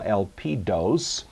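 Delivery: "elpidos" drawn out slowly, accent on the middle syllable, el-PI-dos; stress stays on PI. Shown as a demonstration. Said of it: "the accent remains on the same syllable".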